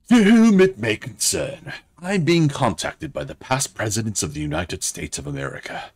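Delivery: a mock British accent, reading a letter; hammed-up British letter writer. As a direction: read the letter as a put-on Brit. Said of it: "I don't know why I chose British".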